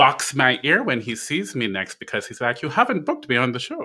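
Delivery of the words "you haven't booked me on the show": comic put-on Italian accent, rattled off fast. Acting out what a guest not yet booked will say, Michael R. Jackson in Italian accent. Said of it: "your Michael R. Jackson is Italian".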